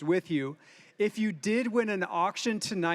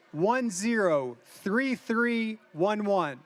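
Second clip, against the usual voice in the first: slow, spaced-out number calling; raffle caller; much slower than usual. Real, not acted. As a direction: read each digit slowly to the room. Emcee calls raffle number.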